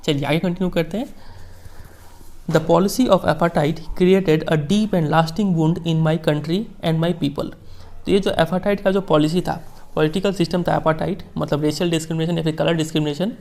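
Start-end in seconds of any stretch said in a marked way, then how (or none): 2.5-7.5 slow, measured reading of a famous speech; formal speech reading. Acted. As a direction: read each phrase slowly, like quoting a statesman. Teacher reads Mandela speech slowly. (धीमा, गंभीर भाषण पाठ)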